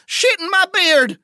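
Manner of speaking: loud, high-pitched cry of alarm; startled yell. Acted. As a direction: yelp an oath as rats swarm you. Dwarf startled by swarming rats.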